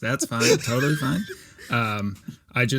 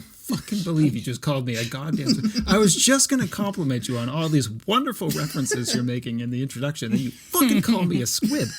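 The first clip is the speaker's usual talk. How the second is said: laughing mock outrage; 2 semitones higher than usual. Real, not acted. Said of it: "gets me mad".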